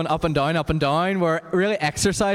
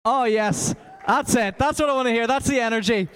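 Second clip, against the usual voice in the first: excited; 4 semitones higher than usual. Real, not acted. Cheering on congregation singing.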